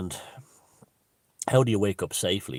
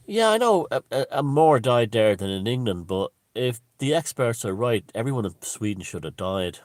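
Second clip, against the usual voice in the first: much higher, louder, mock-cheerful agreement; breezy agreeing, then the twist; 4 semitones higher, 7 dB louder than usual. Shown as a demonstration. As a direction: agree brightly, then turn it into a joke. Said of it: "this is how you language it".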